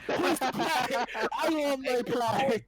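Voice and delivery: mock pirate captain. Joining the pirate game, mock captain. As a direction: play the captain on deck.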